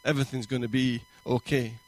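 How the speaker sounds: reassuring. Pretend. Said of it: "a voice you recognize is so reassuring".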